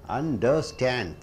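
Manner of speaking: Understand, drawn out slowly toward STAND; slow teaching Understand, weight on the final syllable; stress on last syllable. Shown as a demonstration. Teacher breaking a word into sounds, slow stress on last syllable. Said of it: "When you stress on stand".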